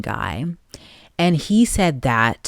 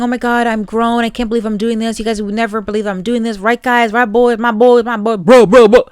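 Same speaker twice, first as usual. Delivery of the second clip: higher mock bro voice, boasting to his boys; mocking Clay; 8 semitones higher, 5 dB louder than usual. Host mocking Clay bragging to his boys before the wedding, higher mock bro voice. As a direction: ham up a bragging frat guy, getting louder at the end. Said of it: "he kept saying".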